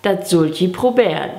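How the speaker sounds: lilting, measured poem recitation; Gedichtvortrag. Shown as a demonstration. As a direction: recite a children's Christmas poem line by line. (Weihnachtsgedicht mit singendem Tonfall aufsagen)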